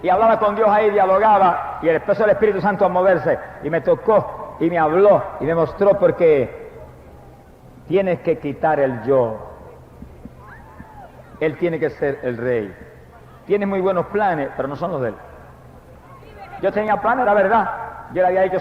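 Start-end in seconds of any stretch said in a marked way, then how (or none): 6.0-15.2 low, slow, hushed divine voice; God gently telling the preacher to drop his pride, low and unhurried; solemn voice of God. Retold or imitated. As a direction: speak low and slow like God correcting a son. God speaking to him in vision.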